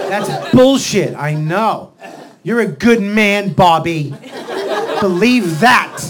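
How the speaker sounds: loud, slow, punched pep talk; acted partner bucking him up; emphatic reassurance. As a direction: insist on it forcefully, word by word. Partner firmly reassures the hurt man.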